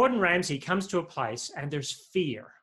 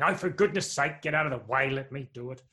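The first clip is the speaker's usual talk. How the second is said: exasperated; faster than usual. Pretend. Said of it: "God isn't saying".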